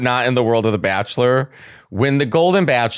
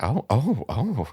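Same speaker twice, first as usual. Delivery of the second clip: mock shocked oh; 7 dB quieter, slower than usual. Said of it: "I was like".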